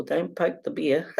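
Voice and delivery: laughing through the warning; half-laughing warning. Retold or imitated. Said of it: "I always say to people".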